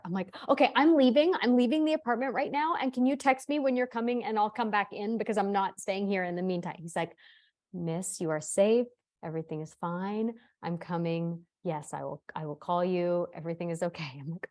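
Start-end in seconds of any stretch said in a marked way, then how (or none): 0.5-6.8 higher, urgent, run-on announcement; retold frantic urgency. Mother telling exterminator she's leaving the apartment, higher and frantic. 7.7-14.1 measured, even reassurance; calm, lovely man. Retold or imitated. Exterminator promising a worried caller he will call, calm and reassuring. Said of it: "in the voice of this lovely, lovely man".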